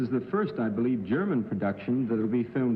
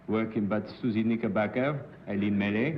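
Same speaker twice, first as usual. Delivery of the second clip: "Susie Knickerbocker" with a light French accent, rising on Susie; a faint French lilt on the names. Shown as a demonstration. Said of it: "let's try French".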